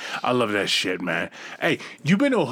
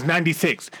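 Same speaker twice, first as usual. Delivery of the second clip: condescending. Retold or imitated.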